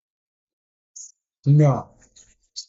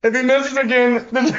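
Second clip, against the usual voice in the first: laughing; 3 semitones higher than usual. Real, not acted. Laughing at possible miss.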